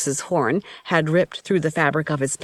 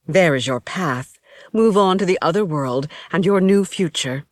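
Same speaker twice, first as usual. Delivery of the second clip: a lightly raised, grave priestess voice; 3 semitones higher than usual. Acted. High Priestess points the way.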